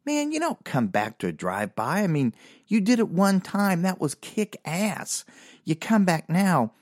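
drawn-out mock disappointment; bummed out. Storyteller as fans seeing the band return, bummed-out protest. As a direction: complain like a let-down fan, dragging the words. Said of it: "we were all so bummed out".

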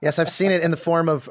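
teasing laugh on the words. Real, not acted.

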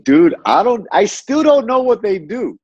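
high-pitched, baffled protest; acted bafflement. Newcomer retelling his confusion about their business, baffled and high.

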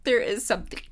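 teary, choked-up voice; ugly crying. Real, not acted. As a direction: speak through real tears. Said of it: "this is why you don't ugly cry in a podcast".

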